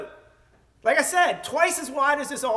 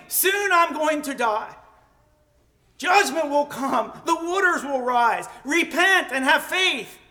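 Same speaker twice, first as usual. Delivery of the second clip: raised preacher's proclamation; proclaiming; 3 semitones higher, 3 dB louder than usual. Acted. Methuselah warning crowds from the scaffolding, proclaiming. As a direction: declare it firmly to a crowd. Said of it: "And he proclaimed".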